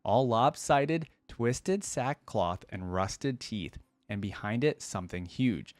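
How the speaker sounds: hushed, haunted storytelling read; dramatic story narration. Acted. Streamer reading a horror story to viewers, dramatic narration. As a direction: tell it like a shaken survivor in the dark. Reads a dark story aloud.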